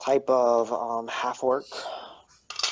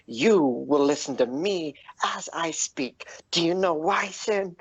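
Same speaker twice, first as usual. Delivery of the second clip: emphatic, rising higher in pitch; defiant demand; 6 semitones higher than usual. Acted. Bullywug on the table lectures Sin, defiant. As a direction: demand attention, climbing as you go.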